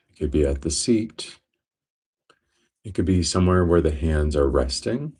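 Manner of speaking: steady meditation guide, long pauses between phrases; guided meditation. Real, not acted. Teacher guiding listeners into breath awareness, guided meditation. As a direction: guide them calmly, leaving space after each phrase.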